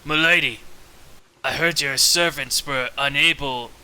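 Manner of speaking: slyly courting, with halting pauses. Acted. Gra slyly sidles up to the lady, sly. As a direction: lay on a mildly sly come-on. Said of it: "he tries his best slyly".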